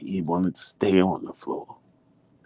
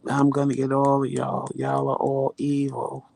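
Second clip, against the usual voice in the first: mock whiny blame; 6 semitones higher than usual. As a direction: imitate a suffering husband accusing everybody. Imitates husband threatening everyone.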